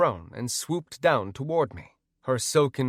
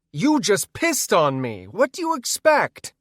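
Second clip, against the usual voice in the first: indignant shout; 9 semitones higher, 7 dB louder than usual. Acted. Arguing back after attack.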